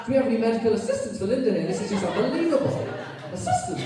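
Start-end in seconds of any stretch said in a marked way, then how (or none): 3.3-3.8 cracked squeak of a voice; voice cracking. Real, not acted. Preacher's voice cracks mid-sentence, squeaking high. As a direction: voice breaks high on the word. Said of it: "I don't know why my voice is not".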